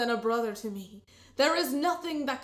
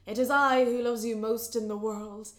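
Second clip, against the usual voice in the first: loud grand wooing; 9 dB louder than usual. Acted. Buneri's loud rival wooing.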